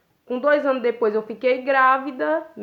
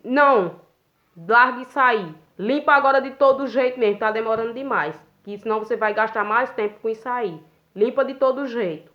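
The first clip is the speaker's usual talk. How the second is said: mildly raised, impatient boss voice; imitated impatient scolding. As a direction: mimic a boss rushing the worker along. Retold boss scolding her. (bronca impaciente da chefe, imitada)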